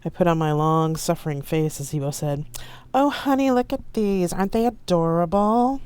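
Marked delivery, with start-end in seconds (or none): 2.9-5.8 higher, gushing over trinkets; a pretend husband gushing at his partner over gnomes; fussy fiancé gushing. A narrator's reading. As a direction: coo like a doting fiancé. Ibo plays fussy fiancé.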